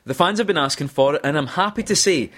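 polished announcement to the fans, slightly lifted; conference presenter voice. Acted. Podcast host reading quiz quote number two, conference presenter voice. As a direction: announce it proudly like a keynote speaker. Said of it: "do this in my most, um, conference-like, um, voice".

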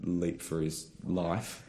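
playful play-by-play of the cat; mock commentary. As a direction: call the cat's leap like a sportscaster. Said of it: "I'm gonna commentate while he does this".

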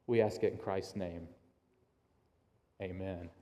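measured prayer, softening at the ends of phrases; earnest prayer with deliberate pauses; public prayer. Real, not acted. Pastor praying over the congregation as a series begins, measured prayer.

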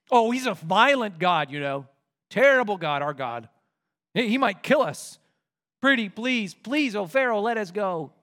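mock fearful pleading; lying Moses. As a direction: scare Pharaoh, then beg. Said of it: "So they lie about him".

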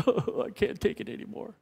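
whispered, overcome sigh of mock tears; overwhelmed listener, half-whispered and teary; mock weepy whisper. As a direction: pretend to be overcome and cry. Mock crying after the proclamation.

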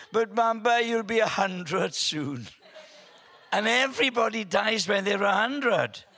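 high-pitched mock tearful protest; imitated sobbing child. Granddaughter fears granddad will die at a hundred, mock tearful. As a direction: wail it lightly, as an upset little girl would. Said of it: "her sobbing stops".

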